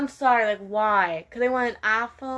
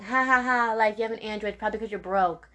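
mocking quote. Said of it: "making fun of us Android users saying".

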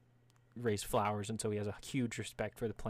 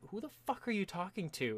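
baffled onlooker; 9 semitones higher than usual. Acted. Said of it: "everyone's like".

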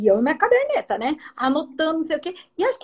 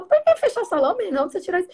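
high, startled question to her son; surprised mother; 6 semitones higher, faster than usual. Retold or imitated. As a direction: sound caught off guard, half amused. Mother surprised by son's fear. (mãe surpresa perguntando ao filho, aguda e espantada)

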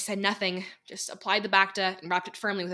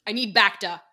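demanding; 7 dB louder than usual. Acted. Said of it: "Dekai demanded".

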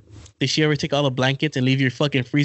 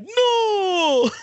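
a much higher no that breaks into a laugh. Retold or imitated. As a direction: refuse her through a laugh. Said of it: "I'm like".

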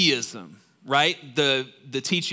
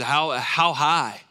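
awed prayer; slower than usual. Retold or imitated. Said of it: "He says".

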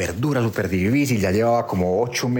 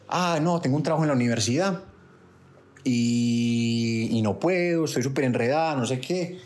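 imitated woman's excuse. Man repeats woman's excuses.

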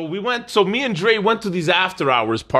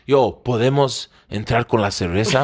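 timid Spanish; 4 semitones lower than usual. Retold or imitated. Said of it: "he said in Spanish".

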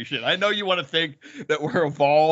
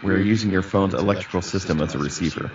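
deep announcer; 7 semitones lower than usual. Acted. Mock sci-fi transmission.

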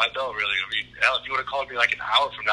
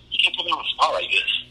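laughing mimic; 4 semitones higher than usual. Mocking the guest's line.

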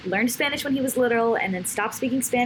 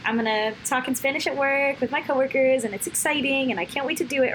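higher, bubbly eager voice; eager excitement; 5 semitones higher than usual. Retold or imitated. At work, excited to speak Spanish with coworkers. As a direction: sound like you can't wait.

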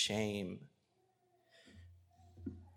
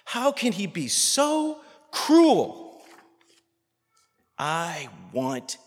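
loud, high, slow preaching rage; angry outcry; 8 semitones higher, 8 dB louder, slower than usual. Real, not acted. Preacher raging at the injustice done to her. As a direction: cry out for justice. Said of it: "makes me so angry".

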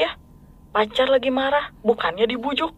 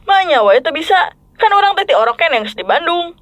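Sundanese speech; 4 semitones higher than usual. Acted. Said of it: "jadi harus pakai bahasa Bandung".

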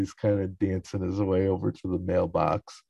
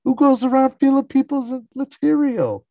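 very high, loud mock screech; hammed-up shrieking mother; Estelle shriek; 8 dB louder than usual. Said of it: "Stell's like".

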